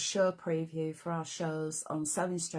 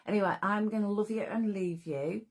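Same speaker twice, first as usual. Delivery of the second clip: a slightly croaky, tired voice; 3 semitones higher than usual. Real, not acted. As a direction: speak with a croaky throat. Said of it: "take my croaky old voice".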